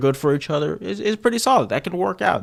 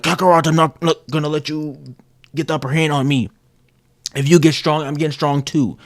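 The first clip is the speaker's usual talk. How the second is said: louder, defiant rival boast; Vegeta rival; 3 semitones higher, 4 dB louder than usual. Retold or imitated. Vegeta challenging Kakarot, loud and defiant. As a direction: puff up and challenge your rival. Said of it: "Vegeta's like".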